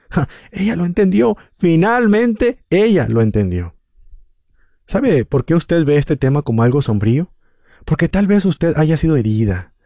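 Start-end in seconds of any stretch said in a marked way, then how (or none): 0.1-3.7 higher-pitched exclamation, slowing on "finalmente"; mildly acted triumphant exclamation; exclaiming. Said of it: "Ray Stedman exclamó en su gran libro".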